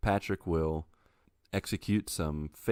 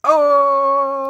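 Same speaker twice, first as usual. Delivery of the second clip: loud delighted groan; groan at pun; 14 dB louder than usual. Real, not acted. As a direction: react to a bad pun. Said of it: "I love beets".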